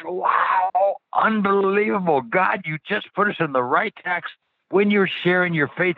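amazed. Retold or imitated. Retelling his own amazed reaction.

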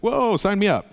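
high-pitched, mock-amazed whoa; hammed-up eager amazement; awed excitement. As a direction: react like an instant eager convert. Acting out amazed reaction to God.

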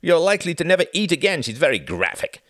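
loud, high jovial teasing; merry cry. A narrator's reading. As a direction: joke loudly and merrily at her expense. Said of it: "cried Reginald merrily".

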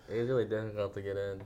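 talking around a mouthguard; muffled by a mouth guard; wearing a mouthguard. Real, not acted. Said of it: "I don't know what he said".

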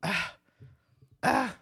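rising wookiee moan, half-hearted; a weak try at a Chewie roar; Chewbacca noise. Pretend. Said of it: "give me your best Chewbacca".

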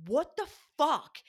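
high, loud, drawn-out outburst; going psycho. Retold or imitated. Dieter confronting partner over a bag of almonds, going psycho. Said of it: "you were going so psycho".

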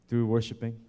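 a light British accent on "Through worshiping". Shown as a demonstration. Congregant asked by the pastor, a light British accent. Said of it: "Can you do it in a British accent".

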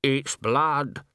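lightly voiced workman stating a discovery; carpenter. A narrator's reading. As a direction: state it slowly, with a falling end. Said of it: "said the carpenter".

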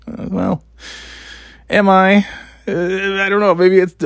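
high defensive reply. Retold or imitated. Defensive reply to dad's remark.

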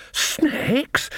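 breathless unvoiced high gasp of a word; wheezed. A narrator's reading. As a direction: gasp it out with no voice left. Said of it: "Nanny wheezed".

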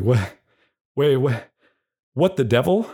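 a proper fellow baffled at being trapped; upright gentleman. Retold or imitated. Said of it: "that's how he talks".

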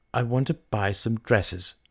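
slow, measured statement; resolute. Acted. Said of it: "said Mary resolutely".

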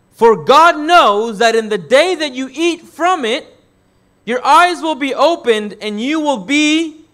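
preacher voicing the serpent's temptation, a hint of a snake. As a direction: draw the serpent's promise out slowly.

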